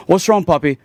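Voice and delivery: light Hispanic accent, imitated; lightly voiced Hispanic-accented janitor. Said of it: "tiny little Hispanic janitor guy".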